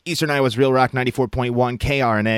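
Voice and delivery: fast, punchy rock radio DJ; old radio voice. Retold or imitated. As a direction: hype it like a radio jock. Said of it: "my real old radio voice was more like".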